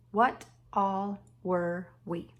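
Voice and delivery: each word drawn out slowly; slow, stretched reading. Shown as a demonstration. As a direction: sound out the words one by one. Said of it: "reading sight words slowly".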